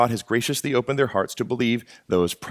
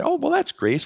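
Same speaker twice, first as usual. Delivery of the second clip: mocking. Mocking a false claim.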